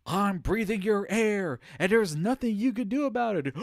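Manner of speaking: hammed-up high-pitched declaration, stretched out loud; mock defiant announcement. Streamer telling the character what to announce at a party, mock-defiant and loud. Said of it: "you should go like".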